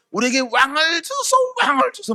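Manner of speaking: the people nagging Samuel for a king, in a pleading voice; mock pleading crowd. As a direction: beg for a king like a restless crowd. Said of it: "백성들이 뭘 구하는 거예요?".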